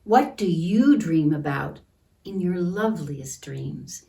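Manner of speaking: put-on slow, gentle read-aloud for kids; storybook reading. A narrator's reading. Teacher reading a picture book to children, gentle.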